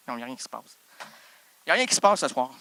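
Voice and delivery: usual speaking voice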